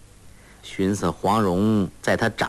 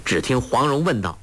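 usual speaking voice

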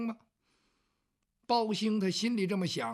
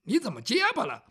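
puzzled; 2 semitones higher, faster than usual. Acted. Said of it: "这包公奇怪".

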